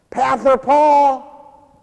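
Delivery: high, loud drawn-out call; child yelling. Retold or imitated. Little blonde boy yelling to his pastor, high loud call. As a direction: call out like an excited little kid. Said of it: "he always yells at me".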